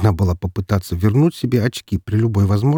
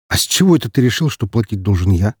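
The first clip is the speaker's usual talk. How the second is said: lightly indignant, fast protest; a touch of outrage, quickly; mild indignation. Acted. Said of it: "тут же возмутился он".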